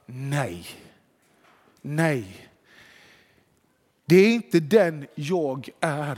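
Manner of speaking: lugnt avvisande. Acted. Spelar Jesu svar till frestaren.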